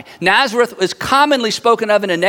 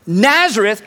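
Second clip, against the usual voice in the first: higher, slow, incredulous question; skeptical; 5 semitones higher, slower than usual. Acted. Nathanael asks about Philip's claim, skeptical. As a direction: question it as if nothing could be less likely. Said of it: "Nathanael is a little bit skeptical".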